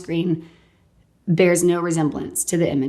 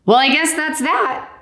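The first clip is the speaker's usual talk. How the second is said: higher, dry shrug; deadpan doctor; 9 semitones higher than usual. Retold or imitated. Doctor closing the case, dry and amused. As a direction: say it with a comic shrug. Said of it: "he was really funny".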